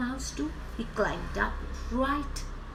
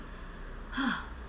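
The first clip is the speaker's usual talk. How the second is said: tag as gasp after drinking; 9 dB quieter than usual. Acted. Elephant finishes drinking water.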